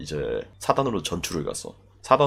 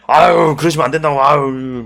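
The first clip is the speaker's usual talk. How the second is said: pleading bystander; 6 semitones higher, 8 dB louder than usual. Retold or imitated.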